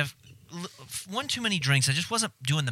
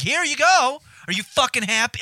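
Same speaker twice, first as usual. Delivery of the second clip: high, loud sarcastic yell at the bartender; angry shouted jab, pitched way up; retold yelling; 10 semitones higher, 7 dB louder than usual. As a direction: yell it back at her, mocking her greed. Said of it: "I started yelling at her".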